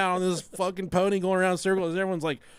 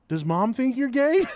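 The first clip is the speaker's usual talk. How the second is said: put-on higher child asking; the daughter asking her mom, voiced higher; 8 semitones higher, 4 dB louder than usual. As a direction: lightly voice the curious daughter. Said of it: "she said".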